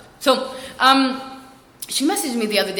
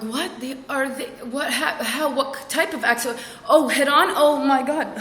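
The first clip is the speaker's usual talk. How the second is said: higher, stammering mock alarm; 4 semitones higher, slower than usual. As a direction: stumble over urgent questions in rising horror. Jumps to worst-case conclusions.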